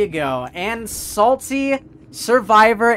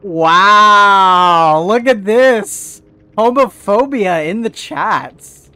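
raging gamer; 6 dB louder than usual. Real, not acted. Streamer shouting at chat comment.

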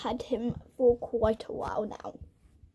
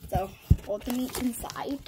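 whispering. Real, not acted. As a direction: breathe the words, no voice. Whispering near the cat.

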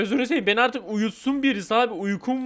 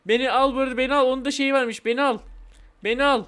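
insistent begging, raised pitch; playful pleading; 5 semitones higher than usual. Pretend. Game baby begging to be taken, insistent higher-pitched pleading. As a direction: plead repeatedly to be picked up. Begs a player to take them.

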